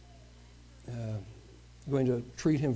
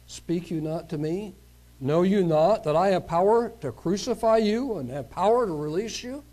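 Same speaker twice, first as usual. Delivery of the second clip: arrogant Pilate; 4 semitones higher, 3 dB louder than usual. Acted. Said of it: "Very arrogant individual".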